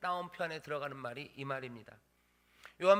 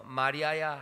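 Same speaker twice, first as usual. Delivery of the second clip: louder, heartfelt call of a name; calling her name; 2 semitones lower, 7 dB louder, slower than usual. Acted. Jesus calling Mary by name, a warm heartfelt call. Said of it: "하시거늘".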